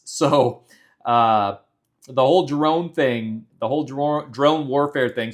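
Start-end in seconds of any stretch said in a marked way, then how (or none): 2.1-5.3 words slurred round dental grills; talking with grills in. Real, not acted. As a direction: speak with a grill over your teeth. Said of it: "with these grills in, it is harder to talk".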